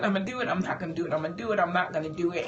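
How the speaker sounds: rapid inner debate. Retold or imitated. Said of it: "toiling with".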